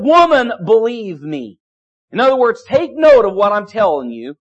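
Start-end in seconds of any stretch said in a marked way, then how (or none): 0.0-1.6 Jesus to the woman at the well, gently insistent; mildly voiced Jesus. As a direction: say it as Jesus would, firm and caring. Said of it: "He said".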